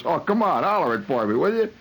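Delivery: coaxing. Retold or imitated. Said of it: "I says".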